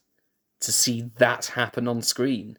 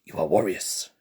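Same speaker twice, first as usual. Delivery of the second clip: lower, fuller New Zealand accent retake; 5 semitones lower than usual. Shown as a demonstration. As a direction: redo it as a deeper New Zealand warrior call. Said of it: "Poor New Zealand accent there".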